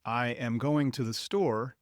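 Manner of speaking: "I am" said as two separate full words, formal; careful uncontracted "I am going to the store"; full long form. Shown as a demonstration. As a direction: say "I am going to" with every word whole. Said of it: "Instead of".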